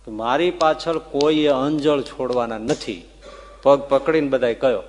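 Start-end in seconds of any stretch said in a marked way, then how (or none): 0.1-3.0 slow, firm, with weight on પાછળ; strict command. Retold or imitated. Maharaj forbids followers to give up food, strictly. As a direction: lay down the rule slowly, stressing પાછળ. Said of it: "આવું strictly કીધું હતું".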